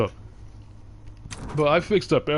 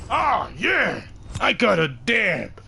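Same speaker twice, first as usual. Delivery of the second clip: excited whoop; 7 semitones higher, much slower than usual. Real, not acted. Celebrates getting an emblem.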